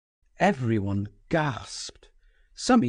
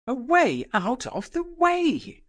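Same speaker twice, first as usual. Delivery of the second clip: cried out; 14 semitones higher than usual. Acted. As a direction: shove them back with your voice. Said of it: "cried Nastasia".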